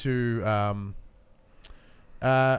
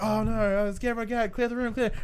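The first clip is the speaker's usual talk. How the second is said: mock panic; 8 semitones higher, faster than usual. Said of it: "they're like".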